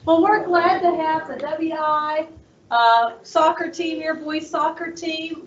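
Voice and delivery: loud, slow classroom projection; teacher voice. Real, not acted. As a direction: project to the back of the room. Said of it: "I'll use my teacher voice".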